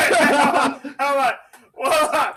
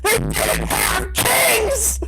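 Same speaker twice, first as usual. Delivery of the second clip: exasperated; 10 semitones higher, much slower than usual. Real, not acted. Exasperated outburst at the video.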